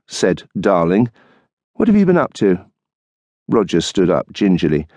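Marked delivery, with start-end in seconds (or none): 1.7-2.6 higher, lightly voiced wife, tart; dry retort as the wife; wife's voice. Wife waiting up for her husband, tart retort.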